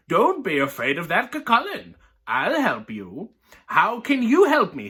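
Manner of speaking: lively read-aloud voice, characters lightly voiced; story reading. Reading a picture book to viewers, lively storytelling.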